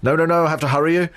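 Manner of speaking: mild brisk interviewer cutting in; Jeremy Paxman. Retold or imitated. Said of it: "a Jeremy Paxman".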